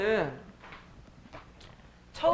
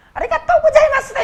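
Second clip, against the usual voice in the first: put-on Japanese accent; 9 dB louder than usual. Mocking Japanese people.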